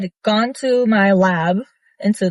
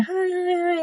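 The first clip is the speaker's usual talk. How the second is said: mimicking his greeting; 8 semitones higher, 7 dB quieter, slower than usual. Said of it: "he was like".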